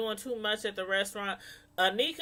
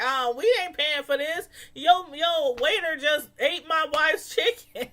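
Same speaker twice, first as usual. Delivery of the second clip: mad husband; 4 semitones higher, 4 dB louder than usual. Retold or imitated. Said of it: "He was like".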